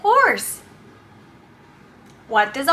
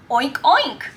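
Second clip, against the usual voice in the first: oinking like a pig; 5 semitones lower than usual. Shown as a demonstration.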